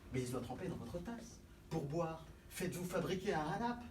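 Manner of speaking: chummy and gentle; friendly. Acted.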